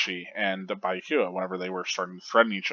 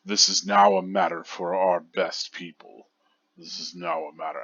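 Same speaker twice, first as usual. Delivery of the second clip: lower, from the bottom of the throat; 2 semitones lower than usual. Shown as a demonstration. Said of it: "that kind of lower bottom of the throat".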